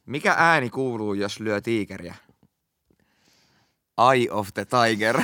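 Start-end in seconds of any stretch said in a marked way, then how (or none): 4.1-5.2 slow punchline with a laugh. Real, not acted. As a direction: deliver it slowly, cracking up.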